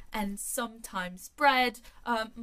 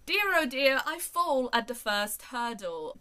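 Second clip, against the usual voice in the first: mock despair; 3 semitones higher, 6 dB louder than usual. Real, not acted. Fails the first quiz question.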